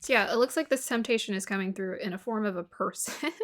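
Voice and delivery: normal talking voice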